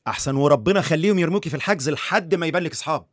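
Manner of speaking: angry scolding. Acted. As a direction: tell her off, rising in anger. Prosecutor scolds the rude doctor.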